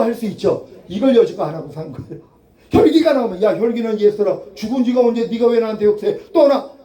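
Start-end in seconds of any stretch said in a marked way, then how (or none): 3.4-6.8 firm command, rising on the last word; stern rebuke. Pretend. Preacher rebukes the old self, sharp command. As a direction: order the old self to leave.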